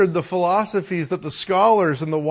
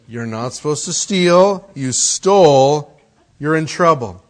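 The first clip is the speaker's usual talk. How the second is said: louder, slow scolding; dad scolding son for stealing, louder and firm; stern father; 4 dB louder than usual. Retold or imitated. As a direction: lay down the law to the boy.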